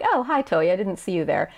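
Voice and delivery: offhand hi, falling away; casual greeting. Acted. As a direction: brush him off casually. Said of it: "more casual".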